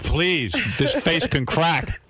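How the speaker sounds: high, slow, drawn-out mock plea; hammed-up pleading. Host begs wife to spare makeup, mock pleading. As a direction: plead like a precious diva, played for laughs. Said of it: "I'm like".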